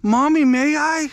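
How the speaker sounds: put-on high, slow and sweet like a small child; little girl voice. Little girl asks her mommy to pet the dog, high and slow. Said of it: "the little girl's like".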